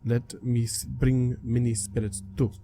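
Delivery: slow, halting spirit voice; clouded leopard spirit. Acted. Spirit tells the player he brought others, slow and halting. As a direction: speak word by word, as in an unfamiliar language.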